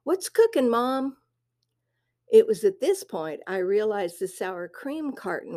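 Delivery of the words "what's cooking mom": put-on teen son greeting. Son's cheery standard greeting.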